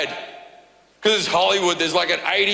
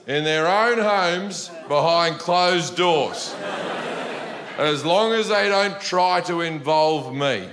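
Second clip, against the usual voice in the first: imitating old dad. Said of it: "my dad says sentences like this".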